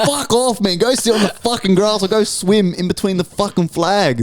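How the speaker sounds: high, heated telling-off; mock outrage at the swimmers; retold angry outburst. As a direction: tell the snorkelers to clear off. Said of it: "I'm like".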